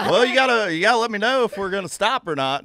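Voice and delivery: mock exasperated self. Retold own line, raised voice.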